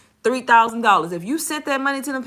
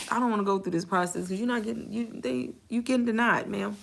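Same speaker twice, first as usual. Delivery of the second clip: wished-for honest reply; 5 dB quieter than usual. Retold or imitated. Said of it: "I be wanting to tell 'em so bad".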